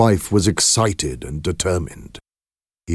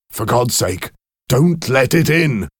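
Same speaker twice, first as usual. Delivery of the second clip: rising, louder frightened plea; fearful plea; 7 semitones higher, 4 dB louder than usual. Acted. Husband begs wife not to open the door, terrified. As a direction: beg her in terror. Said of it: "cried William, trembling".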